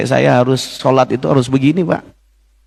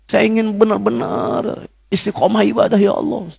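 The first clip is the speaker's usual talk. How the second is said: tearful pleading prayer; 5 semitones higher than usual. Retold or imitated. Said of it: "saya nangis".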